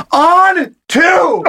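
high-pitched, drawn-out play call; hammed-up huddle shout; mock in-your-face yell. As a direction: imitate yelling an inch from someone's face. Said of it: "one inch from his face".

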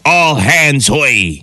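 slow, drawn-out pirate call to the crew. Pretend. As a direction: stretch it out like a captain calling all hands. Reading pirate phrases aloud.

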